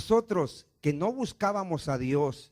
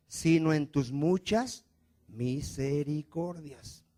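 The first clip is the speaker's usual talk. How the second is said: slow solemn emphasis; much slower than usual. Acted. Preacher slows on key phrase.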